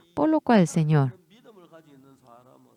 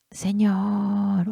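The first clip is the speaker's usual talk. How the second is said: whispered plea; 4 semitones higher than usual. Pretend. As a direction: breathe the word as a secret prayer. Quiet prayer to the Lord. (susurrado, suplicante)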